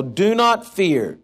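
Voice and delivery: slow, solemn Moses; measured, slow prophetic reading; slow scripture. Acted. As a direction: proclaim it slowly like Moses. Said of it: "Moses said to the people".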